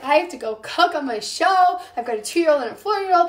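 exasperated plea. Retold or imitated. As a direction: rattle it off, frazzled mom pleading.

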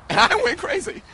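high laughing outburst; anchor stifling giggles. Real, not acted. Anchor loses composure.

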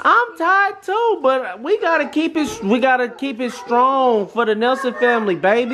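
teasing high voice. Acted. Teasing tired mom, high slow.

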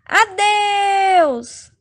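put-on boy fleeing his clingy girlfriend; panicked farewell. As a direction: yell it while running away. Boy flees from Mônica.

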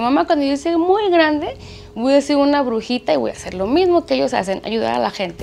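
a hint of a little girl telling her mom her plans; imitating young daughter. Mother voices daughter's dream.

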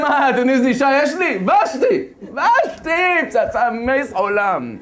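high, loud laughing boast; boastful drunk king. Acted. Drunk king brags to his friends about his wife, laughing loudly. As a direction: brag about her, laughing as you go.

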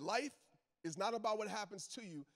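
"Life" set apart by a pause, then the rest in one phrase; slow, paused repeat. Shown as a demonstration. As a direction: pause after "Life" to let it land. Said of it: "I'm gonna repeat that".

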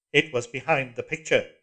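loud flat echo of her words; cold mechanical repeat; iron voice. A narrator's reading. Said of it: "said the voice".

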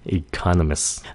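Economists ending in one long s, economiss; dropped T. Shown as a demonstration. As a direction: skip the T in "Economists". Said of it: "làm lơ cái âm T".

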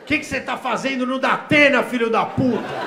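yelling at him, high and loud; an outraged wife screaming at her husband; wife screaming in fury; furious yell. Retold or imitated. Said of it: "Quinze dias depois".

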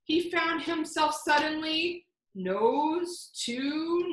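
rhyming read-aloud building suspense; story narration. A narrator's reading. Librarian reading to children, growing suspense.

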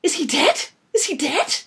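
high, loud panicked squeak; shrill cartoon-mouse voice; Mickey Mouse squeak. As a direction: squeak it out twice in shock. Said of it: "came out in a Mickey Mouse squeak".

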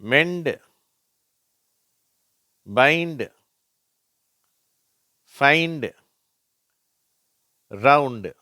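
"மெண்ட், பைண்ட், ஃபைண்ட், ரவுண்ட்" loud, ending in "ndu"; ND sound demo. Shown as a demonstration. Teacher drilling ND, "மெண்ட், பைண்ட், ஃபைண்ட், ரவுண்ட்" projected as model words. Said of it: "இண்டு அப்படிங்கிற உச்சரிப்பு வருது".

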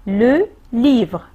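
"le" of "le livre" said slowly and pressed; teacher pointing out "le"; stress on the article. Shown as a demonstration. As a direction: lean hard on "le" to show a single book. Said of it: "Un seul livre, le".

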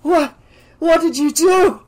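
high, loud panicked shout; frantic shouted accusation. A narrator's reading. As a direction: yell it at her mother in alarm. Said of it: "shouted again".

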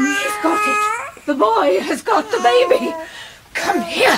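panicked. Acted. Jane snatches baby from boy.

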